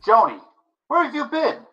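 high, loud urgent greeting; eager outburst. Acted. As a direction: pounce on the long-awaited arrival. Boyfriend greets the wrong woman.

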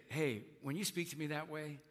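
calmly telling someone off. Shown as a demonstration. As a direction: say it calmly, no yelling. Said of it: "You can just calmly say".

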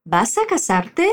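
"¿Vas a casarte?" said slowly and evenly; slow model phrase. Shown as a demonstration. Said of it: "Sigue repitiendo".

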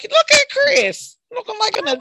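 playful mock parent beaming at a grown kid; proud parent. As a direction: gush over him like a proud mom. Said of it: "I was like".

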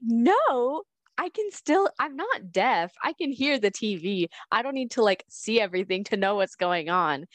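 high, exasperated quoted self; exasperated retort. Retold or imitated. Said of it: "I'm like".

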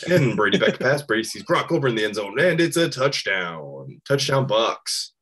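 mock sportscaster calling a touchdown, lightly voiced; play-by-play call. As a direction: pretend to call the game on the radio. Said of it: "play-by-play somewhere".

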